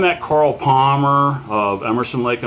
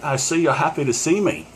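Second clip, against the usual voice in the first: put-on higher-pitched, butchered British accent; 5 semitones higher than usual. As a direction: badly imitate a British rock star. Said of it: "him with his British accent".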